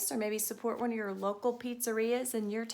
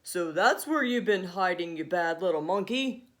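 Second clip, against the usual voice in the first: louder, lower scolding; scolding cry; 4 semitones lower, 5 dB louder than usual. Acted. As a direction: tell the monkey off sharply. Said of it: "Tony cried".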